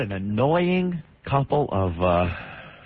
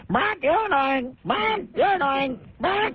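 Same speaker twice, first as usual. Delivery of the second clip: high, slow whiny girl mimicking a teen; whiny teen impression; 12 semitones higher, slower than usual. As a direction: whine it like a bratty teenager. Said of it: "There it goes again".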